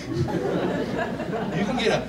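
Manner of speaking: drawn out very slowly, laughing; mock awe, slow; slow dawning amazement. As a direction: stretch the words as it sinks in. Dairy Queen discovery.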